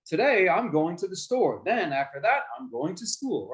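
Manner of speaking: varied pitch that lifts on today and drops on school; voice modulation. Shown as a demonstration. Teacher contrasting modulation with the monotone take. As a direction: let the tune move up and down. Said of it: "if I have voice modulation, if I change up my voice".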